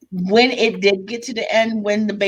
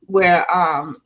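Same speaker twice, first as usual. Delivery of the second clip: whisper; 3 semitones lower than usual. Real, not acted. Whispered filler while thinking.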